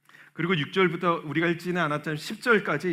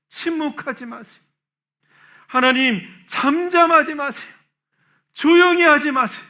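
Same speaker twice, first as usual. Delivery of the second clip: desperate plea; 8 semitones higher, 7 dB louder than usual. Acted. Psalmist's desperate prayer acted out.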